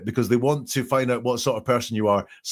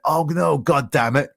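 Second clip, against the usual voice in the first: slightly raised imitation of regret; mock regret; 4 semitones higher than usual. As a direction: act out a regretful curse. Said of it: "we've had that regret".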